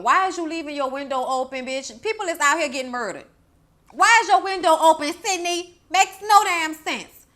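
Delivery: exasperated yelling at a movie character; scolding Sydney. Acted. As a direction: chew her out for the open window. Scolding Sydney through the screen.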